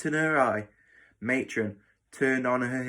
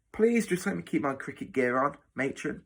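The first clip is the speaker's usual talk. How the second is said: higher-pitched, mildly pleading appeal; 4 semitones higher than usual. Acted. Boy begging matron to keep his kit on, pleading. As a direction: beg politely with rising tune. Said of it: "pleaded Tom".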